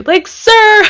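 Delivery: high, loud squawk breaking into laughter; incredulous outburst. Real, not acted. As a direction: burst out scandalized, then laugh. Exasperated reaction to a character's confession.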